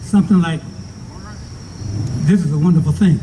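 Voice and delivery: muffled behind a mask; speaking through a face mask. Real, not acted. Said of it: "I'm speaking through this, this mask".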